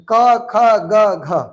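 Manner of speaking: slow, drawn-out क ख ग घ from the throat; throaty letter demo. Shown as a demonstration. Teacher showing throat consonants, slow drawn-out क ख ग घ. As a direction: sound out क ख ग घ slowly, each from the throat. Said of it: "कंठ से आवाज निकलतै".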